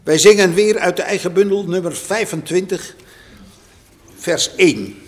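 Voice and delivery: announcing the hymn to the congregation; hymn announcement. Shown as a demonstration. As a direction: call the hymn out to the hall. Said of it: "announces hymn number".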